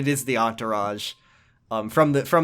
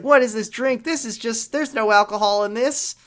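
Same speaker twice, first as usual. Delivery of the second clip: put-on bratty kid; 8 semitones higher than usual. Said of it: "he's like".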